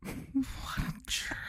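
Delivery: mock offended.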